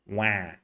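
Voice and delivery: put-on "Wah" with a nasal crying-baby vowel; baby's cry. Shown as a demonstration. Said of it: "How does a baby cry?".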